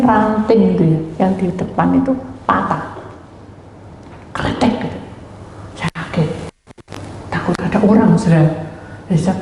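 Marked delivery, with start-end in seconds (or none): 4.3-4.9 short spoken crack of a branch; imitated snapping sound. Preacher recreating the sound of a branch breaking, imitated crack. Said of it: "ada suara yang".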